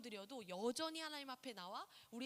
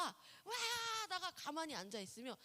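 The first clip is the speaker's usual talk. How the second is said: ordinary talk, nothing marked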